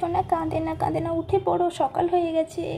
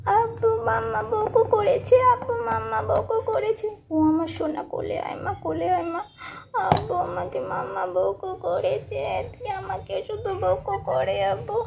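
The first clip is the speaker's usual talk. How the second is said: put-on a higher, babyish complaint to daddy; whiny little girl; 3 semitones higher than usual. Daughter telling father that mummy scolded her, whiny. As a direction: tattle on mum like a sulky toddler.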